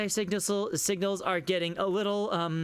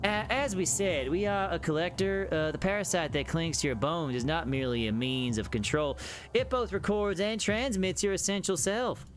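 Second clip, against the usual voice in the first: flowery creature in a put-on southern accent; badly faked southern accent; terrible southern accent. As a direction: speak as a folksy southern monster. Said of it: "my terrible southern accent going".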